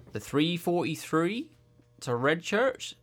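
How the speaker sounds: slow, measured imitation of a station announcer; unhurried announcer. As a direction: announce it at a leisurely pace, with long gaps. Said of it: "it's just like that speed".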